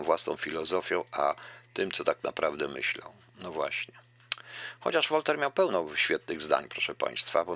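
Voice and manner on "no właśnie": whisper. Real, not acted. Whispered aside after commentary.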